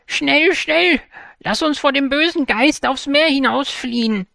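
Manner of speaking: high, loud, hurried call to flee; urgent cry. A narrator's reading. Grandmother urging her sister to flee, high loud cry. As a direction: urge her sister to run. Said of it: "rief die eine".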